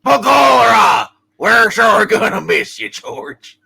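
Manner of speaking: a hearty Irish begorra; Irish-accent Pop. Acted. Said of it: "Pop Bailey voice".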